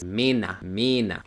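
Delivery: German Männer as "mena", final open a; low, careful "mena", ending on a; ER como A. Shown as a demonstration. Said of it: "E R va a pasar a sonar como una A". ("mena", Männer con a final)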